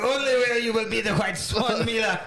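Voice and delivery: mock director laying down the rule in rough French; hammed-up, deliberate French-accented instruction; Vincent Cassell. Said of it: "I think I can either".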